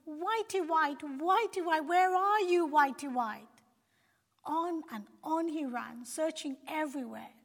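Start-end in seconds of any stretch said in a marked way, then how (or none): 0.1-3.5 loud, higher call across the mountains. A narrator's reading. Shepherd searching the mountainside, calling loudly for his sheep. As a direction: shout the sheep's name into the distance.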